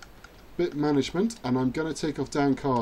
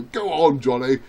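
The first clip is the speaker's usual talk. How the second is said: mildly imitated fan cheer; English fan's shout; 5 dB louder than usual. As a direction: urge him on like a fan, half-voiced. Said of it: "all the English fans should".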